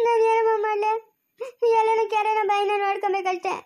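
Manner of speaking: crying lament. Acted. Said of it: "ಅಳ್ಬೇಡ ಸುಮ್ನಿರೆ".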